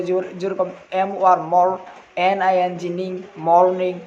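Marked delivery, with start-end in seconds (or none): 0.9-3.2 slow spelling, landing on মর then নিং; syllable by syllable. Shown as a demonstration. Teacher showing students the syllables, slow and spelled out. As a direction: break মর্নিং into মর and নিং, slowly. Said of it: "syllable করে পড়তে পারো".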